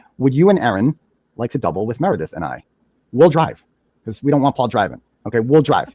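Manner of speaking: ordinary delivery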